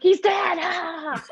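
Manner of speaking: high, laughing cry of he's dead; imitating two women laughing and wailing at once; laughing imitation. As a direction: mimic the aunts cracking up, pitch flying high. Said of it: "shitting their pants laughing".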